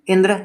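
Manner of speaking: इंद्र with its opening इं pushed; stress on the first syllable of इंद्र. Shown as a demonstration. Teacher showing where the push falls, इं stressed in इंद्र. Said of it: "यहाँ पे धक्का लग रहा है".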